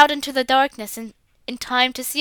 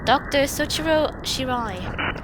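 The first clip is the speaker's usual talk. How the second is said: ordinary talk, nothing marked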